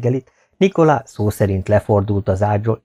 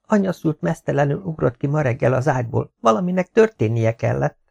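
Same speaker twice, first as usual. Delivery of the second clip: higher-pitched maid telling her mistress news; a hint of a gossiping servant, pitched up; lightly voiced maid; 5 semitones higher than usual. (enyhén megjátszott, magasabb hangú szolgáló)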